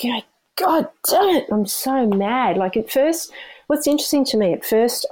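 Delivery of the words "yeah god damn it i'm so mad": high, sharp cry of frustration after a fall; half-acted fury at falling; mock angry outburst. Runner retelling her fall, voicing mock anger. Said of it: "I've been like".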